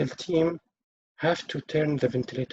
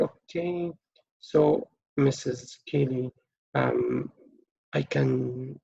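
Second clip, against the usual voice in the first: gentle, sympathetic; 2 semitones lower than usual. Shown as a demonstration. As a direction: ease her toward seeing her mother. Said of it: "in a sympathetic way".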